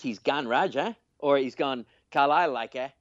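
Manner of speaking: lightly attempted Cumbrian accent. Shown as a demonstration. Co-host repeating the local phrase on request, light Cumbrian accent. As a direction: try the Cumbrian lilt with a tagged-on "eh". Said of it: "they say like eh at the end of everything".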